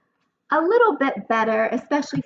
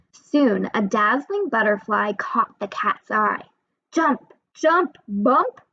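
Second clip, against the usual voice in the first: lively picture-book narration with character voices; storybook reading for kids. A narrator's reading. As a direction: read it aloud as if to a class of young children. Reads picture book to children.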